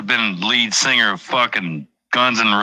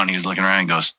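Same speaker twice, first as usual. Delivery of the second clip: usual speaking voice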